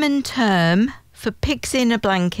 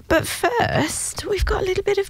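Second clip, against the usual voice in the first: hushed teaser; 10 semitones higher than usual. Acted. Teasing the trivia segment.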